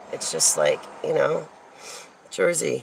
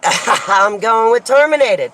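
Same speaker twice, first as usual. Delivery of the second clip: high, loud and drawn out through laughter; laughing delight; 5 semitones higher, 5 dB louder than usual. Real, not acted. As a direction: crow it with a laugh. Laughing at her lucky outcome.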